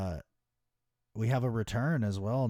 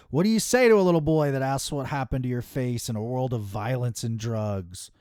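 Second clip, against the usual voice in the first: a hammed-up, louder wrestling promo read; mock dramatic promo; 3 semitones higher, 6 dB louder than usual. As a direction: ham up Ricky's solemn question. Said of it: "He literally says".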